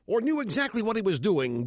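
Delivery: ordinary delivery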